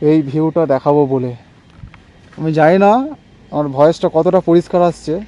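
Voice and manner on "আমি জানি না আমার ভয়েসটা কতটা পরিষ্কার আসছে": muffled under a helmet; talking through a helmet; inside a helmet. Real, not acted. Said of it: "আমি helmet পরে আছি".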